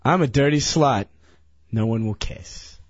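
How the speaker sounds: ashamed and slow. Shown as a demonstration. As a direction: drag it out like you're humiliated. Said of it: "so slowly".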